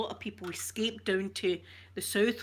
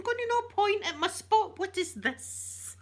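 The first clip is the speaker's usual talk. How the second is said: mock pleading; 11 semitones higher than usual. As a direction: beg them to stop asking. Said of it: "You'd be going".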